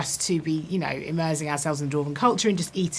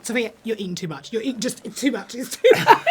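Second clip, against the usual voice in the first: director scolding, laughing; 4 semitones higher, 4 dB louder than usual. Retold or imitated. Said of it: "J A comes in".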